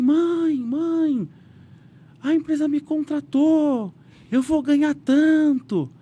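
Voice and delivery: high and loud, overjoyed; excited shout. Retold or imitated. Son shouting to his mother about the big salary, overjoyed. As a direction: shout the news down the phone.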